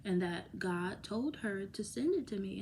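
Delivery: ordinary delivery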